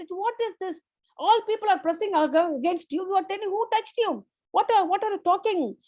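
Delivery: mildly irritated disciples questioning Jesus; annoyed disciples. Retold or imitated. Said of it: "They were annoyed".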